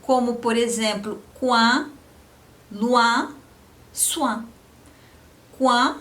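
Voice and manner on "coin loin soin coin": coin, loin, soin with a nasal wan ending; French oin sound. Shown as a demonstration. Teacher modeling nasal oin words. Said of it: "com aquele Nzinho no final".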